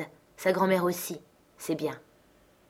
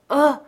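cry out; 7 semitones higher, 8 dB louder than usual. A narrator's reading. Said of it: "ai-je crié".

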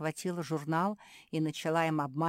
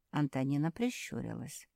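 usual speaking voice

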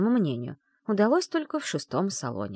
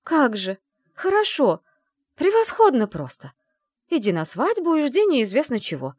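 louder, higher sarcastic rant; bitter outburst; 7 semitones higher, 5 dB louder than usual. A narrator's reading. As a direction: vent bitterly to herself. Bitter angry outburst alone. (героиня зло и саркастично возмущается)

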